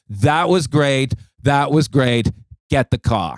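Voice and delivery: put-on comic dismissing the young comedian to fetch the car; curt dismissal. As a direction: rush the praise, then send them off. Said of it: "he goes".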